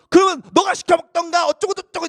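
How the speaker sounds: loud, high retort to his sister; mock talking back. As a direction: fire it back like an annoyed kid. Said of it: "이렇게 맞받아치는 정도는".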